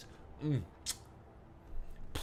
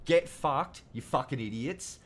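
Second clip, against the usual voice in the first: angry shout; 4 semitones higher than usual. Real, not acted. Ranting at the voters who picked the Liberals, furious shout. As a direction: spit it at them with full force.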